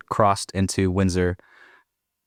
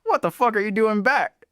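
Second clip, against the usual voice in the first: pissed parents; 13 semitones higher than usual. Retold or imitated. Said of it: "my parents are fucking pissed".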